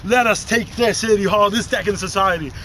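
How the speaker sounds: rallying revolutionary speech; booming ideological slogans. Acted. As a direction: stir up the crowd.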